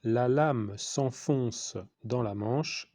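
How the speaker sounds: measured, drawn-out dictation pace; slow dictation. Real, not acted. Teacher dictating a sentence to pupils, slow dictation. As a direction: dictate slowly, word group by word group.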